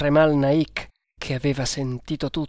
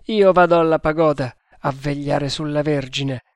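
firm, louder command of a temple thug; lightly voiced stern cult guard, menacing; 3 dB louder than usual. Guard sends Gari after the hunter, louder menacing command. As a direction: order the killing without pity. Indian guard gives orders.

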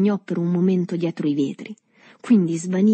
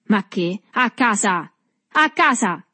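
excited cry climbing in pitch; grido infatuato; 4 semitones higher, 3 dB louder, slower than usual. A narrator's reading. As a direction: overrule him, rising to a high cry. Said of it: "gridò l'uomo infatuato". (grido esaltato, sempre più acuto)

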